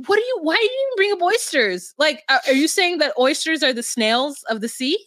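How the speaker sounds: high, fast incredulous rant; exasperated retort. Retold or imitated. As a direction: call her out in disbelief. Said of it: "And I'm like".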